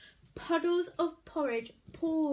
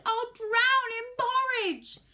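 higher, louder panic; panicked boy; 10 semitones higher, 9 dB louder than usual. A narrator's reading. Greedy boy fears drowning, panicked. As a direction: wail it in fear.

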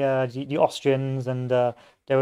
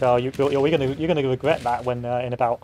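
mocking French taunt. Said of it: "the French are laughing".

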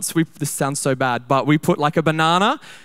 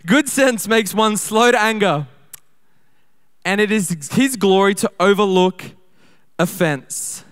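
preaching. Shown as a demonstration. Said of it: "I'm preaching, babe, I'm preaching".

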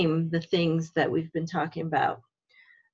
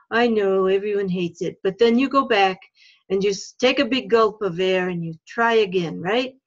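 French fox puppet voice; 4 dB louder than usual. Pretend. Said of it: "I speak in the French accent".

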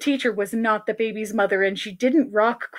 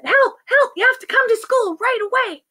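urgent plea; 12 semitones higher than usual. Acted. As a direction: beg for help right now. Ben phones mom for help.

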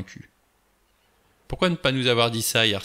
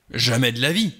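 curt, louder denial; sharp retort; 3 semitones higher, 5 dB louder than usual. Acted. Doctor rejecting Blore's suggestion, sharp and cutting. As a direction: snap it back, cutting. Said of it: "répliqua Armstrong acerbe".

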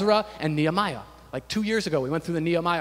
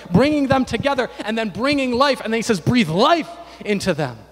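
louder, emphatic sermon delivery; animated preaching; 5 semitones higher, 7 dB louder than usual. Real, not acted. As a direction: preach it with building energy. Preaches with rising force.

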